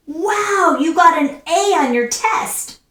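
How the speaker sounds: high swooping wow of praise; excited exclamation. Shown as a demonstration. Teacher showing exclamations by praising a test grade, excited. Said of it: "exclamation point to emphasize".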